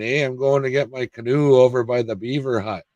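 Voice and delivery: lightly put-on Canadian accent; a hint of a Canadian accent, joking. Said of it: "for my Canadian accent".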